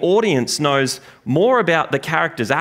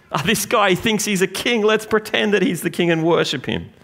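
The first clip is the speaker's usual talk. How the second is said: higher, sneering mock praise; mocking soldiers; 5 semitones higher than usual. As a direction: scoff like a cruel soldier. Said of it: "pretending to worship him".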